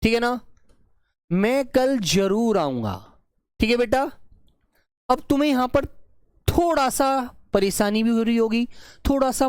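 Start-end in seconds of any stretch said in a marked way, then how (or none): 1.3-3.2 slowed, deliberate reading of मैं कल जरूर आऊंगा; teacher reading the example sentence at dictation speed. Shown as a demonstration. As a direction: spell the sentence out slowly. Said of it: "देखो ये वाक्य है".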